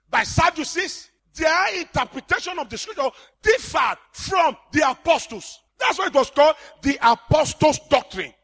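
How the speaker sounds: impassioned sermon, rising to shouts; fiery preaching. Acted. Preacher exhorting his church, impassioned preaching. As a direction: preach it hard to the congregation.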